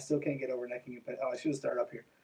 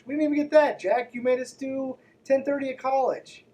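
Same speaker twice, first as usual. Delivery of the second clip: high, loud protest at Jack; indignant outcry; 10 semitones higher, 6 dB louder than usual. Real, not acted. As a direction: shout it out, mock-outraged. Calling out the author Jack.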